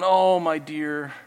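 slow, gentle comfort from the Lord; tender Lord. Acted. The Lord comforts the downcast believer, slow and tender. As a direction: soothe like a loving father, slowly. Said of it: "the Lord's going".

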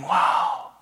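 a hammed-up wow from the crowd; mock awed wow. Crowd admiring the praying hypocrites, mock awed. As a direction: gush like a dazzled onlooker. Onlookers gushing over Pharisees.

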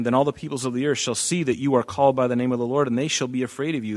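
fast, even rereading of the verse; quick re-reading for the congregation; brisk reread. Shown as a demonstration. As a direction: rattle through the verse again quickly. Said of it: "verse ten".

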